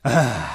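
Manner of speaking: "ah" solto na expiração; suspiro de aquecimento. Shown as a demonstration. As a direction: inspire fundo e solte um "ah". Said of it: "Mais uma vez". (suspiro sonoro, descendente)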